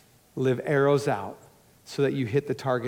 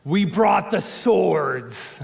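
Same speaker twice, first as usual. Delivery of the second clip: eager exclaim; much slower than usual. Retold or imitated. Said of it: "they exclaimed".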